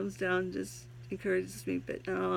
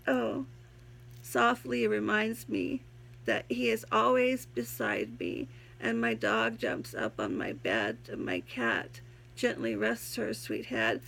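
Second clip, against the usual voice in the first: poem reading; 2 semitones higher than usual. Acted. Reads her own poem aloud.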